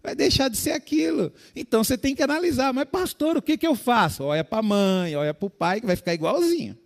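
loud, high-pitched preacher exhortation; preaching at full force. Real, not acted. Preacher urging the congregation to expect change, full force.

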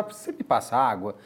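low, soft request; politeness implied by tone. Shown as a demonstration. Showing that tone makes please unnecessary, politely. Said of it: "no subtexto da forma que você fala".

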